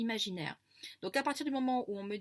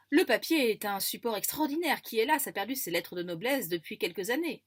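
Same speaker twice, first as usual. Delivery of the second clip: solemn magician voice; 3 semitones higher, 6 dB louder than usual. Acted. Magician character speaks in excerpt.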